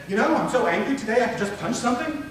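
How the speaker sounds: demonstrated anger, pitched high; angry voice. Shown as a demonstration. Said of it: "My body didn't agree with my voice".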